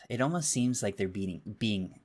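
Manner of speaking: tripping over a repeated word; real flustered hesitation; flustered stuttering. Real, not acted. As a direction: stumble and restart mid-thought. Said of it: "I'm stuttering so much".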